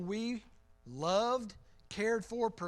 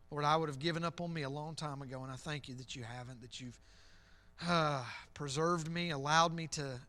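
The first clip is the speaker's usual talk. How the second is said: prayer; 4 semitones lower than usual. Real, not acted. Leads the closing prayer.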